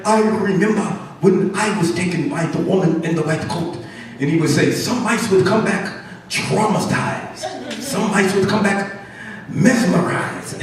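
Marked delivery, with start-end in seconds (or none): 0.1-3.8 put-on measured old-sage mouse voice; lightly voiced learned old mouse; old Mouse Einstein. Old mouse addressing the others about the lab, measured recollection. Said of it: "old Mouse Einstein would get up". 4.7-10.6 slow, drawn-out sage mouse; old Mouse Einstein. Acted. Old mouse warning the others, slow pronouncements. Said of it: "old Mouse Einstein would get up".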